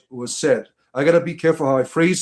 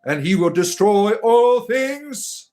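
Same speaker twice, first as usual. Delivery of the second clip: mock doom prophet; 3 semitones higher than usual. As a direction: proclaim the doom of Cthulhu. Preaching Cthulhu doom.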